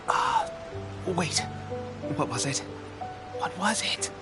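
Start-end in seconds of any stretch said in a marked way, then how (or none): 2.2-2.6 low, soft self-questioning; trying to remember. Acted. Forgets last tip, tries to recall. 3.4-4.1 soft question with rising end; quietly stumped, tune going up; puzzled recall. Acted. Asks himself again, still stuck.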